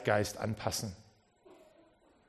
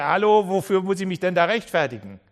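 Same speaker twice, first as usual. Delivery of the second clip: louder, exasperated protest; indignant; 5 semitones higher, 8 dB louder than usual. Retold or imitated. Preacher mimicking his own inner protest, exasperated and indignant. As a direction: throw up your hands in disbelief. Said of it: "von denen ich denke".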